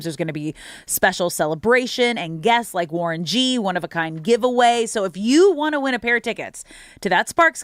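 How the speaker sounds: upbeat promo read; radio contest promo. Acted. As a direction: pitch the giveaway to callers. Reads a ticket giveaway promo.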